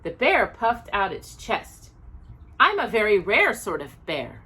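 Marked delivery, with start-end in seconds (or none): 2.6-4.4 self-important. Acted. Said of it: "he replied importantly".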